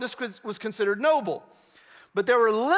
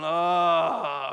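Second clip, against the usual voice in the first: groan demo; 4 semitones lower than usual. Shown as a demonstration. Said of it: "I want you to groan".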